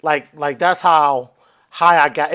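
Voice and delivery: ordinary talk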